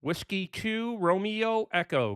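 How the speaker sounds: drawn-out radio call sign; slow and deliberate for a struggling listener; slow, careful repeat. Real, not acted. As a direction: stretch each code word so it gets through.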